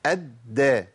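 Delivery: الدا said "ad-da", the d held before the vowel; doubled dal with fatha. Shown as a demonstration. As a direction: hold the double d of الدا, then open to "a". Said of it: "الدال المشددة بفتح".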